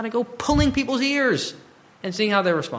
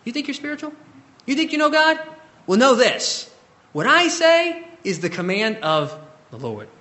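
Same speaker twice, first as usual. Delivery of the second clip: harsh apostle; 6 semitones higher than usual. Pretend. Imagined apostle scolding someone who thinks he's spiritual, harsh. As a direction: throw your authority at them. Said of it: "Could you imagine saying that".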